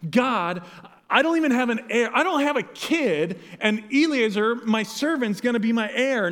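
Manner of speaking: flustered. Retold or imitated. Abram complaining to God he has no heir, flustered. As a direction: blurt it out, flustered and frustrated. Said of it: "It's almost like Abram's flustered".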